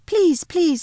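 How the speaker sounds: high, eager begging; sudden pleading. A narrator's reading. Edmund suddenly begging the Queen for sweets, high and eager. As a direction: blurt it out like a greedy child. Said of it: "said Edmund suddenly".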